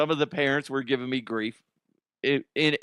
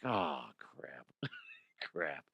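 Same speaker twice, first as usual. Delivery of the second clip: much softer, lower muttered curse; muttered under breath; 8 semitones lower, 14 dB quieter, much slower than usual. Retold or imitated. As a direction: mutter it to yourself. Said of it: "But I was like".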